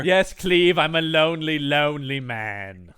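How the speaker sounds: slow, hammed-up self-pity; mock lonely lament. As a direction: drag out "lonely man" in mock sorrow. Playing the ape to Cleve.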